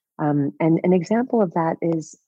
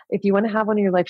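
quick, matter-of-fact repeat; fast, businesslike restatement; brisk instructions; 5 semitones higher, much faster than usual. Retold or imitated. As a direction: rattle it off like a manual. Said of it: "almost like the operating instructions".

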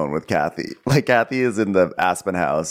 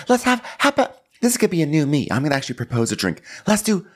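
high-pitched, lively reality star impression; Renee; 9 semitones higher, faster than usual. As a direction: pitch it up for an eager drink proposal. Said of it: "And Renee's like".

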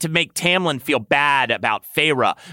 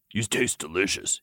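softer, lower purr; 4 semitones lower, 7 dB quieter than usual. Acted. Lucien praising Tamlin's taste, purring. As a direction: purr it low and pleased. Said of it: "he purred".

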